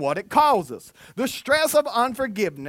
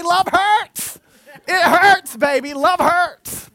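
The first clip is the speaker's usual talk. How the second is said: very high, loud comic bellow; hammed-up shout; 9 semitones higher, 9 dB louder, slower than usual. Dad answers his daughter's protest, high hammed-up shouting. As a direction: belt it out with mock passion. Mock-dramatic reply to daughter.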